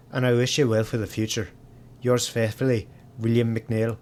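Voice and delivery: a light, badly faked Irish lilt; bad Irish accent. Streamer voices the groundskeeper McNeil's notice in a bad Irish accent. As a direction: read the letter as a mock Irish groundskeeper. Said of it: "That was a bad accent".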